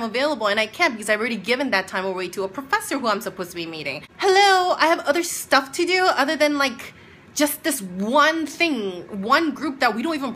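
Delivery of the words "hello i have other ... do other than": much higher, louder incredulous hello; exasperated hello. Real, not acted. Ranting to viewers about the classmate, exasperated hello. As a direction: ask if anyone is home.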